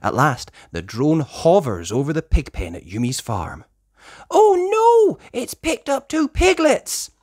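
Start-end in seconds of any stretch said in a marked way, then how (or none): 4.3-7.1 much higher, louder alarm; alarmed cry. Acted. Sky sees the piglets taken, high alarmed cry. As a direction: gasp in alarm. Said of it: "cries Sky".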